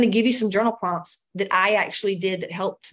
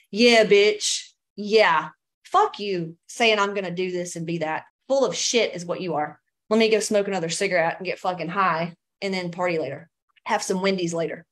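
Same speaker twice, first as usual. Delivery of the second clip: put-on bratty seventeen-year-old self; 3 semitones lower than usual. Mocking her past self's pep talk, a scoffing teen. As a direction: sneer it back like a defiant teenage girl. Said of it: "that's what my seventeen-year-old self would have said".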